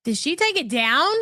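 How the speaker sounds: startled rising question; just noticed it's gone; surprised. Real, not acted.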